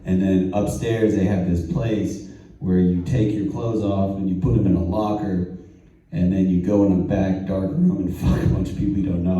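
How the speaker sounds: lightly voiced friend, low-pitched; friend recounting. Friend explaining his night at the club, lightly imitated, low. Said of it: "He goes".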